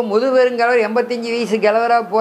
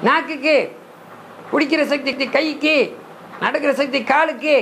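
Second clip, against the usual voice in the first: higher-pitched recital of learned answers; lesson recital; 5 semitones higher than usual. Acted. Pupil answering the teacher's questions on the senses, high recital.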